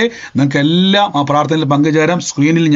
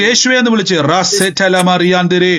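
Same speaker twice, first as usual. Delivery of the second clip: deliverance prayer; 3 semitones higher than usual. Acted. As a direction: rebuke the spirit with rising force.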